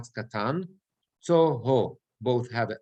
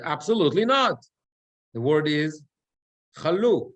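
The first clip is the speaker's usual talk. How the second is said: mock conductor; 4 dB louder than usual. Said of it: "the conductor went crazy".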